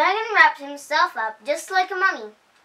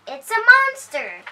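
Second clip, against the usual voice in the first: higher, louder alarmed cry; scared dragon; 9 semitones higher, 7 dB louder than usual. A narrator's reading. Dragon thinks a monster growls, high scared cry. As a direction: shout the warning in fright. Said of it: "he screamed".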